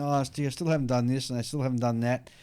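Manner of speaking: normal talking voice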